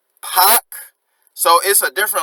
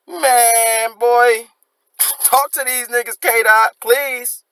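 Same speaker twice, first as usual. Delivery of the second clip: higher, louder hype shout with a laugh; hyped-up praise; 7 semitones higher, 3 dB louder, much slower than usual. Real, not acted. Fan hyping a rapper after his verse, excited shout. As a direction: call out to the rapper, fired up.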